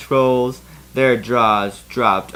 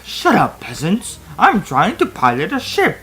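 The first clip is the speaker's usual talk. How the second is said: mock screech; 6 semitones higher, 3 dB louder than usual. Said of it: "I screeched".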